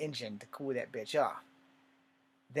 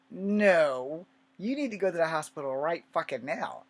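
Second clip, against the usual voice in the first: insistent aunt; 4 semitones higher, 6 dB louder than usual. Retold or imitated.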